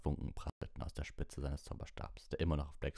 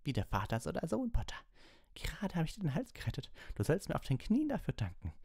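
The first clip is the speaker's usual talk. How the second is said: very high, frenzied tirade; crazed rage; 11 semitones higher than usual. A narrator's reading. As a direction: rant like a madman losing control. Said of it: "wirkte mehr denn je wie ein Irrer".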